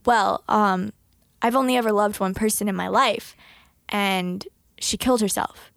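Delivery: low, grave retold confession; mildly solemn imitation; dead serious. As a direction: quote a solemn confession, slowing at the end. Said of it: "he was so serious".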